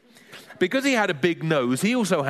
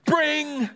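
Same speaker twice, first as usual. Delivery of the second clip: longer, more insistent ring; insistent doorbell ring; 13 semitones higher than usual. Retold or imitated. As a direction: ring like an impatient finger on the buzzer. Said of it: "This ring was more insistent".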